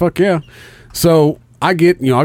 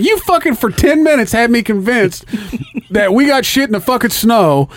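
higher, slowed, laughing through it; laughing disbelief; 8 semitones higher than usual. Retold or imitated. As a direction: laugh while scolding the prankster. Retelling being fooled, laughing.

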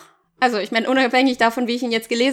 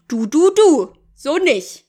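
higher, playful telling-off; mock angry scolding; 3 semitones higher, 4 dB louder, slower than usual. Telling off whoever wrecks your friend, mildly angry. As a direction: wag a finger in mock anger. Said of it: "ein bisschen wütender zu sein".

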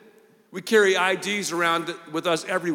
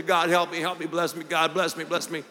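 mock plea for blessing; faster than usual. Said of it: "then I'll come over here and say".

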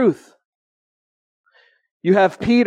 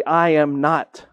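slow denial; slower than usual. Retold or imitated. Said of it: "we choose to say".

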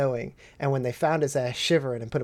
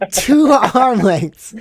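TWO ARM LENGTHS loud, high and very drawn out; hammered emphasis; 8 semitones higher, 9 dB louder, much slower than usual. Shown as a demonstration. Storyteller demonstrating tube length to friend, "two arm lengths" hammered slowly.

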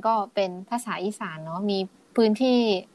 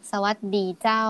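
Northern Thai accent. Shown as a demonstration. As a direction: greet in Northern Thai, stretching เจ้า. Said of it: "ภาษาเหนือต้องพูดยาวๆลากเสียงยาวๆ".

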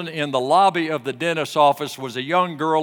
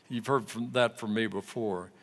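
ordinary talk, nothing marked

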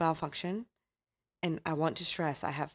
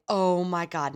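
excited exclaim; 6 dB louder, slower than usual. Retold or imitated. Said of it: "the story would start by her saying".

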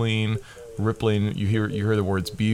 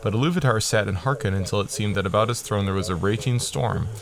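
reading aloud. Shown as a demonstration. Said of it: "I'm just reading down here".

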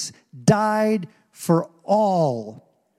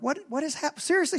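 retold disbelief; 11 semitones higher, 6 dB quieter, faster than usual. Preacher retelling his alarm at the covid news, incredulous. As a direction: pitch leaps high in mock shock.

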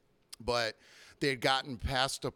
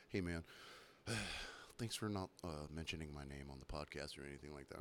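softer, sheepish low murmur; meek thanks; 9 semitones lower, 14 dB quieter than usual. Retold or imitated. Bartender quotes the regular's quiet sheepish thanks, soft murmur. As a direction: mumble it quietly and sheepishly, almost under the breath. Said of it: "he's like".

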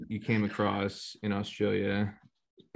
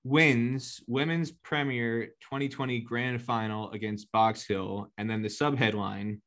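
headline read-aloud. Acted. Host reading old article to player, headline read-aloud.

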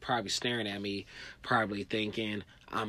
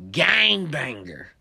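loud slow tough declaration; slow menacing repeat; 4 semitones higher, 10 dB louder, much slower than usual. Retold or imitated. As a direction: repeat his threat with weight. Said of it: "That's what he told me".

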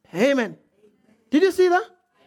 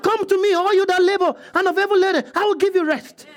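inviting voice of Jesus; 4 semitones higher than usual. Retold or imitated. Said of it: "He said".

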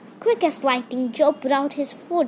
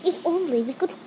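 longingly; 5 semitones higher than usual. Acted. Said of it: "said Joe longingly".

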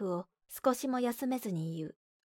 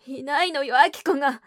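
必死; 4 semitones higher, 8 dB louder than usual. Acted. 母が必死に訴える.

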